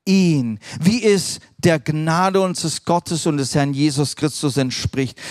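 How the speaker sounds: slow, measured reading of the verse; solemn scripture reading. Acted. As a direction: read it like a prayer from the pulpit. Reads Bible passage solemnly.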